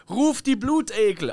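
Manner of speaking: imitating a king echoing through the hall; mock king's command. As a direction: call it out like a king ordering his court. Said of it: "rief er so durch den Hall".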